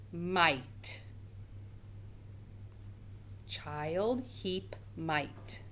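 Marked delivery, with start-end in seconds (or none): 3.5-5.6 words repeated softly; softer repeat. Shown as a demonstration. Teacher quietly repeating the three words for the class. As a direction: say them again, quietly. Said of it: "Tell me which word does not belong".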